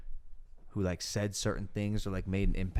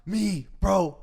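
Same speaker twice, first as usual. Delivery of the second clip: mock exasperation; 9 semitones higher, 6 dB louder, much slower than usual. Retold exasperation, loud high.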